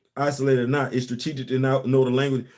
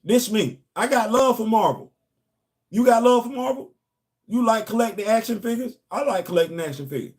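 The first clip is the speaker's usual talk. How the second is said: mock hype pitch; 7 semitones higher than usual. Shown as a demonstration. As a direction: ham it up like selling to fans. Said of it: "Watch this".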